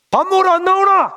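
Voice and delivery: loud, very high call through the house. Retold or imitated. Mother calling her fasting son to dinner. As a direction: shout for him to come eat.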